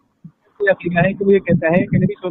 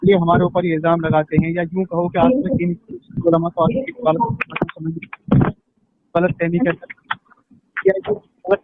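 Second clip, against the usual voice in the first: broken, choppy call audio; call dropping out; 4 semitones lower than usual. Real, not acted. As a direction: voice cutting in and out on a bad line. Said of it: "आवाज ही नहीं आ रही, कट कट के आ रही है".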